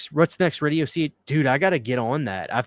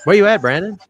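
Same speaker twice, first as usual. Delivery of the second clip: raised voice calling into the stream; 8 semitones higher than usual. Real, not acted. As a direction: call out for a missing friend. Calling out for late guest.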